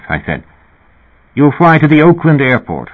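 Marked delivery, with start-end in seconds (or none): 1.3-2.9 higher-pitched, lightly British man; slight British accent. A narrator's reading. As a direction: lift the voice, a hint of British English. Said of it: "voice with a slight British accent".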